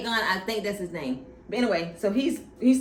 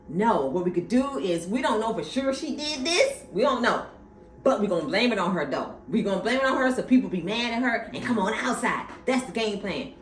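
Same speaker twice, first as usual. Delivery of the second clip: scheming father; 5 semitones higher, 4 dB louder than usual. Retold or imitated. Papa voiced explaining scheme.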